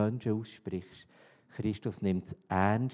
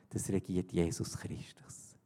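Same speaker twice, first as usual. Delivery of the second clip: softer hushed whisper on the answer; 3 semitones lower, 5 dB quieter than usual. Acted. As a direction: breathe it out as a secret truth. Whispered climax of the point.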